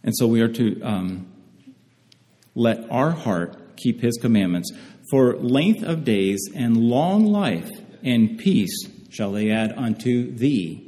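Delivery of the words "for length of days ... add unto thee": slow, leaning on thee at the end; emphasis on thee. Shown as a demonstration. Preacher reading Proverbs to the congregation, stressing thee. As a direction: let the word thee carry the weight. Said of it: "Putting emphasis on thee".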